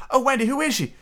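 put-on high-pitched, breathless-with-curiosity child; high, thrilled question; excited cry. A narrator's reading. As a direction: cry out eagerly like a small boy. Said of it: "cried Nibs, everybody as excited".

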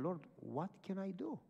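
soft retold plea to God; inward prayer. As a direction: pray it softly, as if in thought. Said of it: "So I prayed in my mind".

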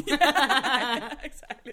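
bursting laugh. Real, not acted. Laughing at joke.

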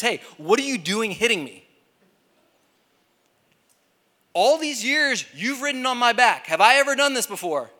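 high, hammed-up talking cartoon donkey; Shrek. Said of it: "the donkey turns around and goes full Shrek".

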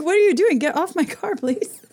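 acted-out indignant telling-off; retold confrontation. Acted confrontation over her car.

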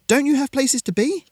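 very high, loud dismissal; loud challenge. A narrator's reading. Girl dispersing the crowd, loud and high. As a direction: send the crowd packing. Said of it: "she said loudly".

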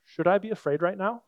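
quiet, plain-spoken prayer to Jesus; soft honest prayer. Retold or imitated. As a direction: pray to him softly like talking to a friend. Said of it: "we ask him as a friend".

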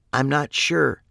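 cartoon-mouse squeak; high squeaky voice. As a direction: sound like you just sucked a balloon. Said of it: "she said in a high, squeaky voice".

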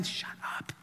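voiceless mock yell; hushed imitation of someone yelling; retold telling-off. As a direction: whisper it like a muted shout. Imagined friend telling him off.

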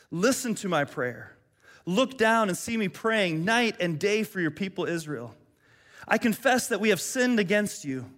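earnest, solemn reading of a prayer. Acted. Preacher reads Nehemiah's prayer to the congregation, solemn and earnest. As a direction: lift the prayer up to God reverently.

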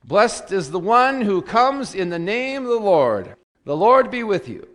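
liturgical proclamation. Real, not acted. Worship leader greeting the congregation after the reading, ringing proclamation. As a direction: proclaim it out to the whole church.

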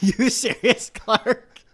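playful Eddie echo; Eddie impression. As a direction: echo the dim cousin. Echoing Eddie quote.

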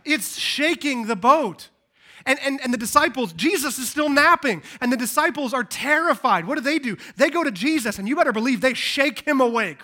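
loud, high-pitched urgent storytelling; forceful preaching. Real, not acted. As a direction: drive the drama home from the pulpit.

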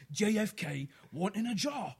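loud, slow Cockney riddle; hammed-up Cockney accent. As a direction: spin it out in thick Cockney. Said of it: "do it in a Cockney accent".

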